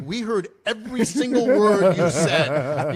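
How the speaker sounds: loud, slow, high-pitched re-enacted chewing-out; screaming sergeant. Airborne sergeant running over to the jumper, retold screaming. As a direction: hammer out each word as an irate sergeant. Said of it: "the one is just screaming".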